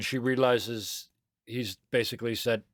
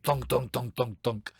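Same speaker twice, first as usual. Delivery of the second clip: adult footsteps; slower than usual. Acted. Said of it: "And an adult feet".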